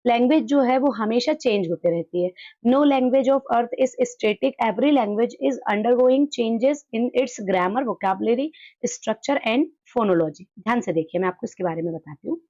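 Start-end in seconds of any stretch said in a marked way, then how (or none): 2.7-10.5 slow, deliberate reading of an English definition; slow dictation reading. Acted. Teacher reading a textbook definition aloud to the class, slowly. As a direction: read it word by word for students to copy down.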